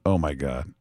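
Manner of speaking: half-whispered mock horror at himself; imagined regret. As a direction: mutter it like a man waking up to his mistake. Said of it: "watching that going".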